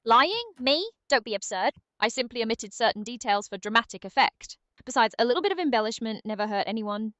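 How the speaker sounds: mock-indignant British accent; British Aria. Sidekick accused of fibbing about tea, British indignation. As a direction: protest grandly in a British accent. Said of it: "Can British Aria come back for a bit?".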